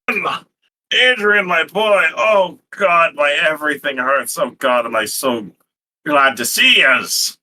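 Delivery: put-on high, dazed groaning old brawler just coming round; groggy Fish Guts. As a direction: squeak it out like a battered big man waking up hurting. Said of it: "on the ground and goes".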